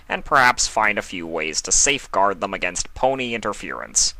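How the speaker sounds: a stiff, businesslike dark king; King Sombra. Acted. Sombra recapping the villains' meeting, a lightly voiced formal tone.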